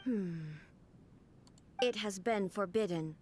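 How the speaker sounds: flat, even machine voice; calm ship computer. Acted. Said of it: "You sound like a computer".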